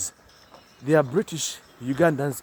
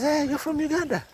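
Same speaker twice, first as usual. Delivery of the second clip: imitating a shopkeeper, much higher and delighted; shopkeeper's greeting; 11 semitones higher than usual. Asian shop owner greeting a Ugandan customer, a lightly voiced excited hello. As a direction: chirp the question up high like a friendly shopkeeper. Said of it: "the Asian man says".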